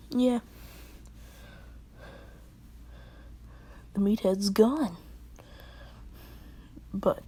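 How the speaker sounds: a hint of a rowdy, brash tomboy. Hana switching to her tomboy side, lightly rowdy. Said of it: "to her more rowdy tomboy side".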